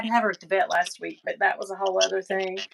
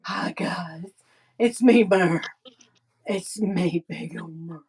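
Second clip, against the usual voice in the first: voicing the dog; 3 semitones lower, 3 dB louder, slower than usual. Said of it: "She's like".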